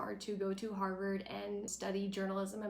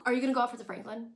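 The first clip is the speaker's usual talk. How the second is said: fast, louder interrogation; rapid-fire challenge in her face; confrontational Paris; 3 semitones higher, 6 dB louder, much faster than usual. Retold or imitated. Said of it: "all up in her face".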